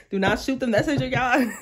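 giggling defence of the bearer of news; laughing plea. Real, not acted. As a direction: do not shoot the messenger through a laugh. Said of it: "Again, don't attack me".

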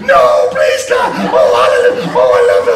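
put-on loud breathy begging like a scared child; mock pleading kid. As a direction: beg like a kid dreading the spanking. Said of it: "do you want Daddy to spank you?".

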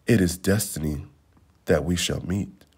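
low, hushed and tender; loving whisper. Acted. Prince tells Angkor their fate, hushed and tender. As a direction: breathe it softly to your beloved. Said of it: "he whispered to Angkor".

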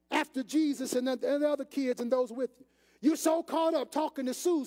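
a husband chewing out his wife, lightly hammed; scolding husband. Joseph scolds Mary for losing Jesus, mock scolding. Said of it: "did Joseph look at him and say".

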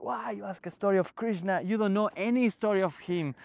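high-pitched mock scolding, volume held back; retold shouting. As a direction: imitate a guru telling off a disciple. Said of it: "Guruji starts shouting at him".

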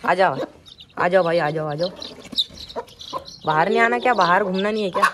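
loud coaxing call; calling the chicks. Real, not acted. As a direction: urge the chicks to come out. (चूज़ों को ज़ोर से पुकारकर बाहर बुलाना)

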